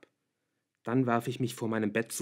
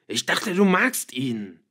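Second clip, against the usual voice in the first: loud, higher, slow bewildered yell; bellowing; 4 semitones higher, 8 dB louder, slower than usual. A narrator's reading. Father confronts fleeing daughter, bellowing. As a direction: shout it in disbelief. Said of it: "brüllte er".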